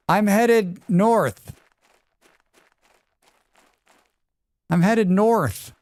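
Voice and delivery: high, slow satisfied; slow and pleased. Real, not acted. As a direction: savor the words.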